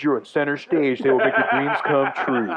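lightly voiced club announcer; strip club announcer. Co-host imitating a club announcer introducing dancers. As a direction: call the dancers up to the stage. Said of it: "the titty bar guy".

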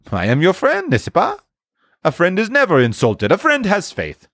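high-pitched, earnest reassurance; loyal friend. A narrator's reading. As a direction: vouch for your friendship in a lifted voice.

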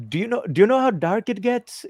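quoting the worried dad in a lightly put-on voice; imitating the dad. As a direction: hiker dad asking the narrator about the dark, lightly voiced. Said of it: "he goes".

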